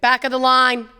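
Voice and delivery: gruff lunch lady barking the order; bossy cafeteria lady calling the queue. Acted. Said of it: "You sound like a cafeteria lady".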